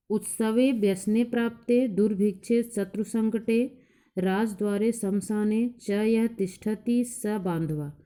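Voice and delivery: slow, measured verse recitation; a teacher chanting a verse for the class; shloka recitation. Acted. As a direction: recite the Sanskrit verse deliberately, word by word.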